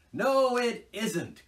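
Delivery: high, loud and slow indignant protest; indignant cry. A narrator's reading. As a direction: draw it out, offended. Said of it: "cried the Rat indignantly".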